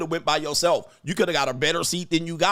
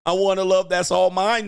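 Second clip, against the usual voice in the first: put-on higher, louder whiny girlfriend; mock pleading girlfriend; 5 semitones higher, 5 dB louder than usual. Commentator imitating the girlfriend at the game, whiny and pleading. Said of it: "they said".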